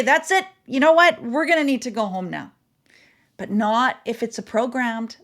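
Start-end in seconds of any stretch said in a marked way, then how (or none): 0.0-2.5 firm parent. Retold or imitated. Mom at the park ending the outing with her kids, stern and firm. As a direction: shut it down: that's it, we're going home.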